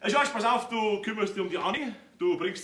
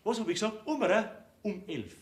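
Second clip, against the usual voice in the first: normal talking voice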